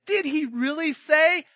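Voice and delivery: a sly tempter egging on, rising to a shout; hint of a mocking devil; Satan's voice. Preacher voicing Satan to the congregation, a light sly tempter. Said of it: "Satan is going".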